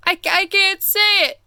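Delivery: mock giggle breaking up the words; a touch of storybook giggling. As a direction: stammer through a giggle. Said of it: "giggled the rhinoceros".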